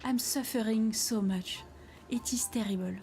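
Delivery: light mock French accent for the cat; a hint of a French accent on a whiny cat. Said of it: "I'm gonna give him a French accent".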